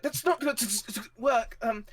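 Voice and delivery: high, halting, stuttering voice; distressed high voice breaking into glitches; glitching ship mind. Acted. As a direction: stutter through a malfunction. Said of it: "and she's like".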